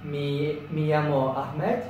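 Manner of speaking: slow, careful learner's Spanish; Spanish accent. Shown as a demonstration. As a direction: read out a self-introduction in shaky Spanish. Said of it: "I'm so sure this is the worst Spanish accent".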